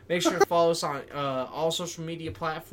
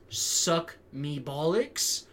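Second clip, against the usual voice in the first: very slow mocking Brit; mock British accent; much slower than usual. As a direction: drag it out very slowly, sneering at the accent. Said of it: "your fucking dumb accent".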